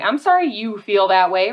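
a defensive, insincere apology; dismissive non-apology. Shown as a demonstration. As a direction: say it like you're dismissing their feelings. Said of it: "be careful about our tone and our approach".

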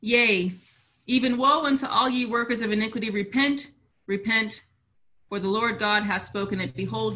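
measured King James scripture recital; scripture reading. Acted. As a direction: read it like solemn scripture.

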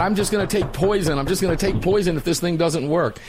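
mock tantrum without really shouting; mock yelling. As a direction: imitate someone fed up with a broken phone. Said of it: "He's yelling into his phone".

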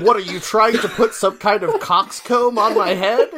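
hammed-up American accent with a laugh in it; Doctor Strange's American accent. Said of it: "in his perfect American accent".

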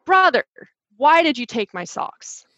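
stern confronting tone. Retold or imitated. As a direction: confront the sock thief, sure of yourself. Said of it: "to mimic as if I was very stern".

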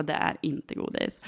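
slow, breathy deadpan denial; sulky flat dismissal; flat, unimpressed kid. Retold or imitated. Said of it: "Han tycker att jag är dum".

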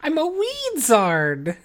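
slow drawl. Acted. Wizard pun, drawn out.

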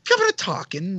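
mock British accent; lightly put-on British princess; Leia. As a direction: briefly imitate a British-accented damsel. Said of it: "how George wanted Princess Leia to talk".

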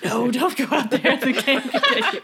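laughing high granny warning; old lady voice. Retold or imitated. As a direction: warn like a fussy old woman. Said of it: "she's like".

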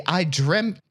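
mock Irish reading; pseudo-Irish accent. Podcaster reading a listener's question, mock Irish. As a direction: put on an Irish brogue. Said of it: "pseudo-Irish speech".

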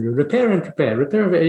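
put-on sing-song Indian accent jingle; a hint of an Indian-accented monk, repeating happily. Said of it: "in his Indian accent".

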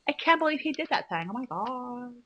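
lightly drawled mock valley girl. Acting a valley girl while cohost laughs, light mock voice. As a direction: play a bored shallow girl, half-hearted. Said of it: "I can't believe you're talking like this".

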